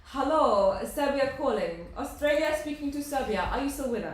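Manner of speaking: lightly hammed-up Eurovision announcer accent; put-on Eurovision accent. Co-host calling Serbia like a Eurovision link, put-on accent. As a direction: call it out in a playful contest-host accent. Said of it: "I don't know why I got this accent".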